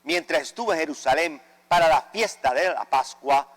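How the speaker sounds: usual speaking voice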